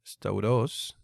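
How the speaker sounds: slow model word in Greek; Greek word demo. Shown as a demonstration. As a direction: pronounce Stauros clearly for the students. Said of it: "Aquí podemos ver el diptongo au".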